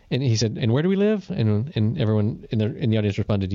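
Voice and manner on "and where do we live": lightly voiced pub singer, higher, calling to the crowd. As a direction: lead the room with a call. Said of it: "he did it in a way where he was like".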